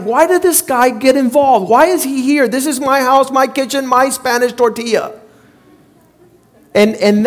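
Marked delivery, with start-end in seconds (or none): 0.0-5.1 a touch of retold kitchen anger; angry inner rant. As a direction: replay the irritation, half earnest. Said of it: "I was like".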